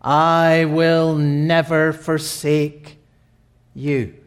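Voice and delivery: slow, sinking to softness; solemn tender vow fading away; slow solemn promise. Acted. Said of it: "God says".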